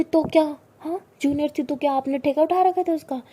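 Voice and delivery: loud, sarcastic angry rant; jealous girlfriend shouting sarcastically; jealous scolding. A narrator's reading. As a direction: scold her for helping the other girl.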